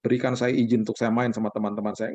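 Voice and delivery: a hint of stiff, solemn address; lightly hammed-up formal plea to a father; mock formal prayer. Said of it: "saya kan nggak mungkin ngomongnya begini".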